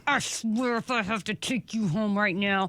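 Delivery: lightly voiced threat through clenched teeth; through gritted teeth. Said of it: "when you have to talk through your teeth".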